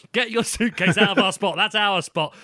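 retold hard demand. Elderly lady ordering a man off their spot, mildly hard demand. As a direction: lightly act out a tough telling-off. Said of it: "double hard".

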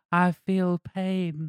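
put-on Greek accent, very slow; slow soft Greek accent. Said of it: "soft Greek accent".

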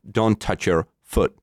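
"foot" short with a T; slow phrase, clip "foot" at the end; short, voiceless ending. Shown as a demonstration. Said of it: "Jedno je delší". (pomalá věta, krátké „foot“)

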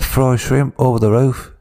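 bad Aussie, slowed down; slow put-on Aussie that slips to Cockney; mock Aussie. Shown as a demonstration. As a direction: ham up a shaky Australian accent. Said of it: "there you go, it's perfect".

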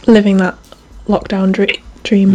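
talking through hiccups; words broken by hiccups. Real, not acted. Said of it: "I can't say it without hiccuping".

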